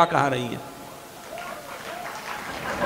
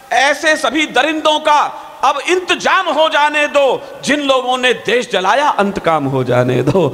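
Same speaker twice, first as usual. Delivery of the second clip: slow, declaiming verse to the crowd; poem recital; 2 semitones higher, slower than usual. Acted. Poet reciting verse to the applauding audience, declaiming.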